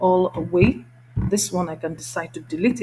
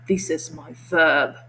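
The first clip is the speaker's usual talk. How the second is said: slow, deliberate teacher emphasis; emphasis demo; 3 semitones lower, slower than usual. Shown as a demonstration. Teacher showing learners the verb, slow emphasis. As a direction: spell it out for learners. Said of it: "Then I will say".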